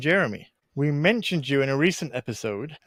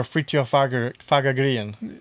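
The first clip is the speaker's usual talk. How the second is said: rolled R Swedish; slower than usual. Shown as a demonstration. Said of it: "gotta have the rolling of the R's".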